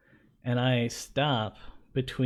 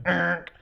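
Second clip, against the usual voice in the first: imitated police beep; 5 semitones higher than usual. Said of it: "annoying beep sound".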